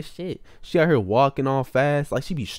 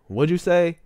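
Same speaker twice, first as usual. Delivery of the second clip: raised, louder mock intercom yell; half yell, pitched up; imitated yelling; 5 semitones higher, 5 dB louder than usual. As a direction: imitate a worker calling out a question. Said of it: "and he was yelling".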